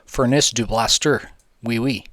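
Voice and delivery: hammed-up fake French, drawn out; lightly put-on French accent; mock French accent. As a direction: play a cartoon Frenchman badly. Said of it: "excuse my French".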